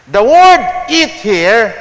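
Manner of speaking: "The word eat here" said slowly, leaning on "eat"; slow down and hit "eat"; stress on eat. Shown as a demonstration. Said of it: "I want to emphasize, eat".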